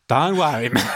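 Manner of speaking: Australian bent toward South African, clipped; South African accent. Shown as a demonstration. Dentist demonstrating how the accent is built, in a South African accent. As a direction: start Australian, then clip it South African. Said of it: "you start Australian and then just bring it in".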